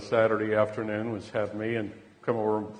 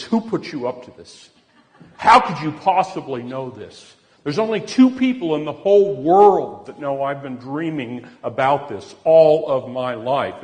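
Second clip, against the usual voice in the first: louder, rising, stunned disbelief; flustered outburst; 4 semitones higher, 10 dB louder than usual. Retold or imitated. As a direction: blurt it out, caught off guard and flushed. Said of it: "She just went livid".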